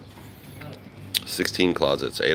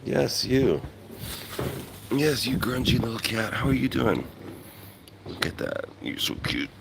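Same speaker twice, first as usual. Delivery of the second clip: higher, sing-song pet voice; 7 semitones higher, 5 dB quieter than usual. Real, not acted. Greeting a stray cat.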